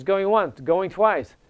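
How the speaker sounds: lightly voiced auctioneer chant; a hint of an auctioneer calling bids. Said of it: "the auctioneer says".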